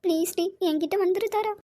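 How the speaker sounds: soft, sobbing plea; tearful pleading. Acted. Mother begging her missing daughter to come back, weeping softly. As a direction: beg her through tears, softly. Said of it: "please அழாத".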